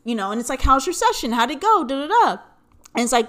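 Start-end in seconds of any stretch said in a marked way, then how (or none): 0.6-2.4 lightly voiced mom, higher and louder; prying mom. Mom checking on the therapy session, lightly mocked prying. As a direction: imitate a mom firing off questions. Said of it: "So she pretty much knows".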